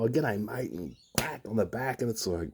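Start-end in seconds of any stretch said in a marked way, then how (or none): 0.0-0.7 mock matey greeting. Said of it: "They go".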